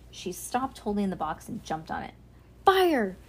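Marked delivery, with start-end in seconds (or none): 2.6-3.2 high, loud shout of alarm. A narrator's reading. Ruby warns everyone of the fire, high loud shout. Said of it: "shouted Ruby".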